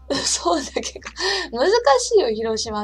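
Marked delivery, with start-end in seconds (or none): 0.0-1.1 whispered Hiroshima dialect through giggles; soft laughing whisper in Hiroshima dialect. Shown as a demonstration. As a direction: breathe そうじゃけか out in Hiroshima dialect while laughing. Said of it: "広島弁が聞きたいんじゃけの".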